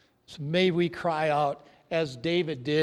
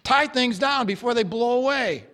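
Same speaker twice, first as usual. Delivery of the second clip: urgent, loud alarm; retold yell; 5 semitones higher, 4 dB louder than usual. Farmer shaking his hired hand awake, urgent loud yell. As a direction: yell it like waking a sleeper in a storm. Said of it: "and yelled".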